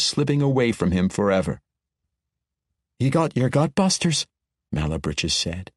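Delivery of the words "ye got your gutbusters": leading, fishing. A narrator's reading. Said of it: "in a leading way that told Bruner she was fishing deeper".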